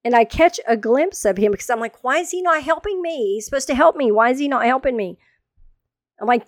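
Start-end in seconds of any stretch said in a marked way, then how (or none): 2.0-5.2 high-pitched mock-indignant complaint; indignant protest. Wife seeing husband not helping, indignant. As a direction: act out a put-out wife's protest.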